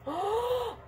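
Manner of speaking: high, soft gasp; stunned gasp. Real, not acted. Vlogger seeing what she cut, stunned gasp. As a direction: suck in air, close to tears.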